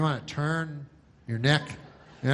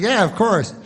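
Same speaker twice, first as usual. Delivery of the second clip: mock field reporter; 7 semitones higher, 8 dB louder than usual. Reporter answering anchor.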